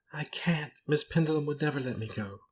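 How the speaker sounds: high, helpless plaint; hopeless crying. A narrator's reading. Companion who cannot leave her employer, hopeless crying. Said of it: "began to cry in the most passive, hopeless way".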